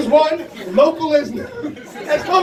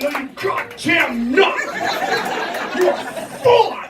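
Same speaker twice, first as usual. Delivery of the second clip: wife voice, slower then high; imitating wife; 3 semitones higher, slower than usual. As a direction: mimic the wife's reassurance. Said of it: "She said".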